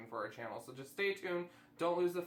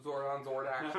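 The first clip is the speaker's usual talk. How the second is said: laughing. Real, not acted. Repeats cohost's joke while laughing.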